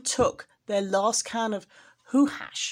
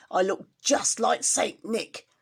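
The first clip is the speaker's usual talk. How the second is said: gloating whisper. Acted. Grinch gloating in disguise.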